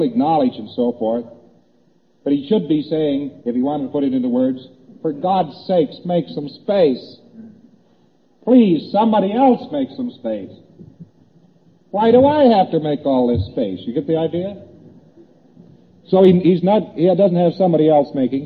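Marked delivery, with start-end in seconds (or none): 5.0-13.8 a hint of exasperated begging, rising on please; mock pleading. Lonely man begging someone else to make space, mildly pleading. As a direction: plead lightly, as if nobody ever answers.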